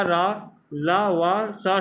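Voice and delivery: each syllable drawn out slowly, one by one; slow sound drill. Shown as a demonstration. Teacher drilling pupils on the sounds after anusvara, slow and clear. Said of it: "अनुस्वर के बाद की जो ध्वनियाँ".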